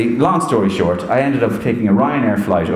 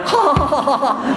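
high answering cackle; put-on ha-ha laugh; mimicked laugh, pitched way up; imitated Roy Keane laugh. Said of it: "sounding like each other".

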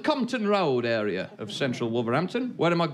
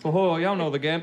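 Black Country phrase. Shown as a demonstration. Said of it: "a useful one for any of you".

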